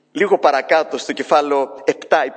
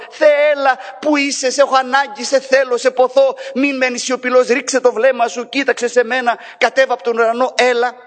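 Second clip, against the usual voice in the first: people crying out; 9 semitones higher than usual. Acted. People begging God to come down, high pleading cry. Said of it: "Τι κράζει ... ο λαός".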